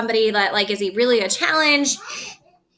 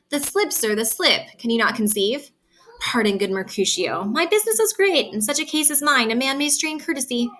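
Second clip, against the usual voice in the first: reading Shakespeare aloud, a little raised and lively; dramatic reading; 3 semitones higher than usual. Acted. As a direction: perform the old verse for the class. Teacher reads Shakespeare aloud.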